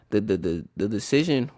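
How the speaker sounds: stuttering on the words. Real, not acted. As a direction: trip over the start. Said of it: "ooh, I was stuttering".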